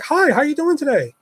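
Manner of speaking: high, chirpy fake greeting; customer service act. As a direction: put on the sweet voice for a customer. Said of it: "a perfect fucking customer service actor".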